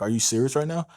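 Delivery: ordinary talk, nothing marked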